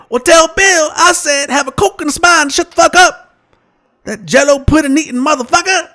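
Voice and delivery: hammy raw comic swagger; Richard Pryor impression. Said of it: "Richard says".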